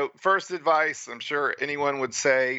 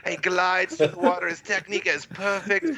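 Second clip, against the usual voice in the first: higher, mock-gushing commentator; gushing announcer; 5 semitones higher than usual. Mocking the TV commentary of his race, a higher gushing announcer. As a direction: lightly ham up a broadcaster raving over the star. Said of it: "So the announcer's like".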